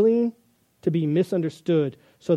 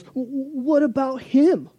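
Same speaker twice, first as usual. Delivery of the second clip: a lightly voiced Peter, high and slow; a hint of Peter, drawn out and wondering; Peter's question; 8 semitones higher, slower than usual. Peter asking Jesus about John, a touch of mock voicing.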